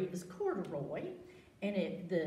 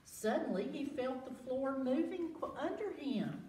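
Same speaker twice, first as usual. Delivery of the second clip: put-on reading to children; 2 semitones higher than usual. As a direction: draw the kids into the story. Dramatic read-aloud.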